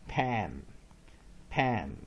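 "pan" with a short A as in cat. Shown as a demonstration. Teacher drilling the first syllable, short-A "pan". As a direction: model "pan" as one separate, clear syllable with short A. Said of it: "short vowel A".

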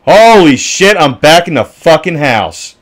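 high and loud, caught off guard; loud startled exclamation; shocked outburst. Real, not acted. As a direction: blurt it out in sudden disbelief. Sudden shock in the game.

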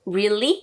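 "Really?" with a rounded R and rising end. Shown as a demonstration. Teacher showing the model. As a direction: ask it with the English R. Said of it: "이렇게요".

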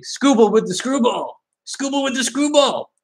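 playful catchphrase call. Pretend. Card breaker trying out a Skubal catchphrase, high playful call. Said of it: "then you could say".

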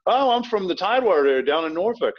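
put-on high-pitched, lilting Southern accent. Telling folks where he's from, in revived Southern accent. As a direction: let the old Southern accent pop out. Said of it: "we lost our Southern accents early".

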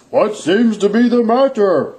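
lightly voiced kind Santa; gentle, kind question. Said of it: "asked the kind voice".

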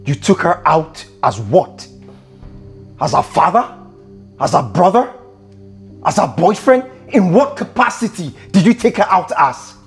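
indignant interrogation, question after question; getting angry. Acted. Boss questioning friend over his house help, angry. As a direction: press each question with controlled anger. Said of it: "why are you getting angry".

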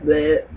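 low imitated belch noise; mock belch. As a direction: fake a crude burp. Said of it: "you know, and you're belching".

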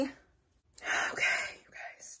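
whispered hush before the reveal. Real, not acted. To viewers before the big reveal, a hushed whisper. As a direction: drop to a breathless whisper.

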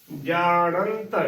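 ਜਾਣੰਤ drawn out slowly, long jaa and full nasal nant; full nasal syllable. Shown as a demonstration. Teacher models ਜਾਣੰਤ, slow and full-nasalled. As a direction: stretch ਜਾਣੰਤ, filling out the nasal before t. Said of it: "ਭਰ ਕੇ ਬੋਲਣਾ ਹੈ".

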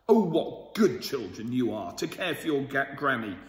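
a touch of a booming butcher; mild mock boom. Butcher praising the children, a mild boom. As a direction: boom it out, understated. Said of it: "boomed the butcher".

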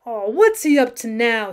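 slow, worried question; a touch of nervous worry, drawn out slowly; anxiously. Acted. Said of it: "says Bill anxiously".

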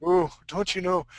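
lightly imitated Wisconsin accent; mock Wisconsin accent. Ribbing Steve about the cold up north, mock Wisconsin accent. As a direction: toss out a teasing Wisconsin catchphrase accent. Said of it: "That's why you guys talk like that".

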